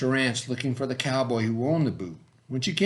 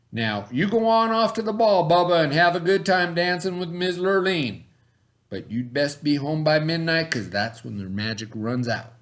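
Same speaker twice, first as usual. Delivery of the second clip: fairy god cow; 3 semitones higher than usual. Acted. Fairy god cow sends Bubba.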